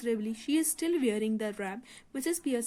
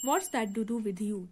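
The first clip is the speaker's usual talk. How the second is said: annoyed; much slower than usual. Acted. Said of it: "Doris annoyed".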